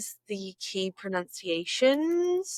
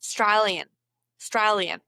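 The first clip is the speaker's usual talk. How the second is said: "Australian" in an Australian accent; trying on an Aussie "Australian". Shown as a demonstration. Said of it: "Say it like".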